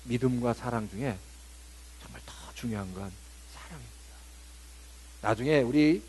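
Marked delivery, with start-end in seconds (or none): 2.0-3.9 hushed emphasis. Acted. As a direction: whisper the key word softly. Whispered key point. (속삭이듯 강조)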